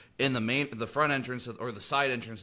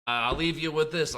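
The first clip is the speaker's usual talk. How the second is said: drawn-out, higher, pompous catchphrase; mock lecturer; 6 semitones higher, 3 dB louder, slower than usual. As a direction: ham up the teacher's sign-off slowly. Imitating the rambler's catchphrase.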